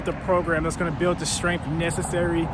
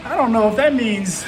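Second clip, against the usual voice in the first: panting, higher, words pushed out; breathless while walking uphill; out of breath; 5 semitones higher than usual. Real, not acted. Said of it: "I'm huffing and puffing".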